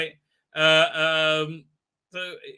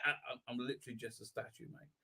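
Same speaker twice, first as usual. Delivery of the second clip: lightly voiced statue; 4 semitones lower than usual. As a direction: mumble like a bored statue calming them down. Statue voiced answering the screams.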